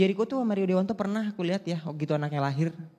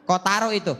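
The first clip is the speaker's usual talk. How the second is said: mom yelling; 3 semitones higher, slower than usual. Retold or imitated. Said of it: "mamaku teriak".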